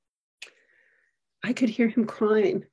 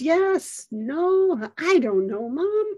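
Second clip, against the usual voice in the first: mild panic; 6 semitones higher, much slower than usual. Retold or imitated. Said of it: "mounting sense of panic".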